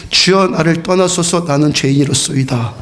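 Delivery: 주여 drawn out slowly, recited with the church; slow recitation. Shown as a demonstration. Pastor leading congregation in reciting verse, slow. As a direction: lead the congregation slowly through 주여, 나를 떠나소서. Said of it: "같이 한번 해볼까요?".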